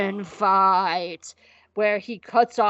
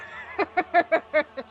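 laughing; 7 semitones higher than usual. Real, not acted. Laugh after answer.

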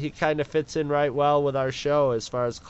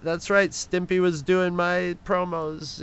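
mock bragging; 5 semitones higher than usual. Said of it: "she's like".

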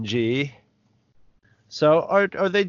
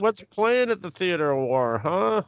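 bad acting; 8 semitones higher than usual. Teasing the grand villain line.

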